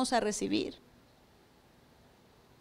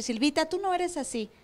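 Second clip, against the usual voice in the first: gentle concern; 2 semitones lower, 6 dB quieter than usual. Retold or imitated. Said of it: "Claudia va a decir".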